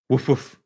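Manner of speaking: playful barking woof woof; dog imitation. Host plays dog for the chat, mock barking. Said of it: "that's my other dog imitation".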